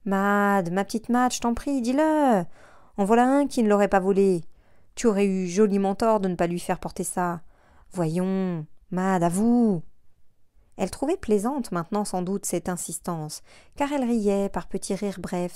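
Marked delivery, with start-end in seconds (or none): 0.0-9.8 nagging plea that gets louder; insistent pleading. Acted. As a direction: coax her, then push harder. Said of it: "Il répétait". (supplication insistante)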